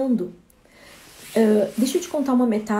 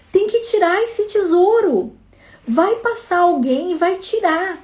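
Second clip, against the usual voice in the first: eager excited answer; 5 semitones higher, slower than usual. Acted. Traveler excitedly tells the dying tree its answer, eager and high. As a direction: reveal the treasure with rising eagerness.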